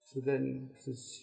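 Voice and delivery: ordinary delivery, nothing marked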